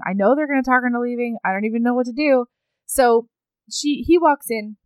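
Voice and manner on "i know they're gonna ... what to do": fast, fretting inner voice; worried rush. Retold or imitated. Husband fears the visitors will talk her away, fretting. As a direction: imitate someone quickly spiralling. Acting his worry about her leaving.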